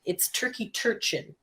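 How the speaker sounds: "turchin" said slowly and carefully; correcting pronunciation. Shown as a demonstration. Host corrects co-host on the name, "turchin" said slowly. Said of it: "first of all, it, it's turkey turchin".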